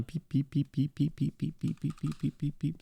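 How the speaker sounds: playful calling. Real, not acted. Streamer calling a chatter named Peep, playful chirping. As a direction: peep at them like a little bird. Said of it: "calling a chat member repeatedly".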